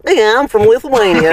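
Lithuanian accent. Shown as a demonstration. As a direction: put on a drawn-out Lithuanian accent. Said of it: "Do a Lithuanian".

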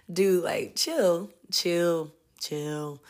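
repeated chill dying away to a murmur; dude chill. Pretend. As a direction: wave them down, trailing off. Telling angry tourists to calm.

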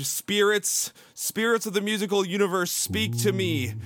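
lightly hammed-up spirit invocation; mock medium. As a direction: call on the spirits, drawing out the last words. Mock séance, invoking spirits.

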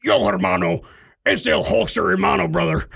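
growling wrestler with Spanish words; Hulk Hogan. Shown as a demonstration. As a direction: bellow like a pro wrestler attempting Spanish. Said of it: "then I would say it in, in Spanish".

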